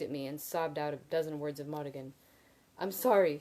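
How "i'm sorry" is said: helpless. A narrator's reading. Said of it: "she said helplessly".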